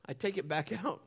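ordinary talk

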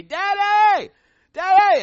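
put-on high, loud little girl crying out for daddy; child calling out. Little daughter at the gate calling her father, high and loud. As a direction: call from the gate like a four-year-old.

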